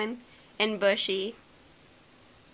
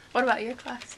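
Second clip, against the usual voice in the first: laughing shriek; 10 semitones higher than usual. Real, not acted. Laughing after good luck.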